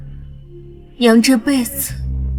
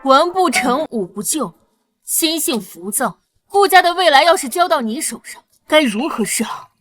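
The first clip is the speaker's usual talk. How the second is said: high-pitched, exasperated lecture; stern scolding; 9 semitones higher than usual. Acted. Woman lecturing wayward heir on family future, scolding. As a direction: scold him point by point, pitched up.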